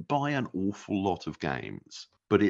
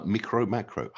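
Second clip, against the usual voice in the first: French accent; 3 semitones higher than usual. Shown as a demonstration. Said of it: "I don't know why I say it with a French accent".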